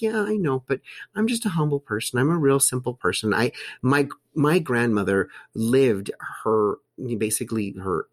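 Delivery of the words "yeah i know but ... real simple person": her own reply, voiced much higher; high humble reply. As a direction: play it up high, modest and shrugging. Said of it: "I'm like".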